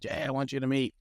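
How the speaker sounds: a hint of an old Southern senator's accent. Senator introducing his young assistant to John Glenn, in a light Southern accent. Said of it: "in this Southern accent".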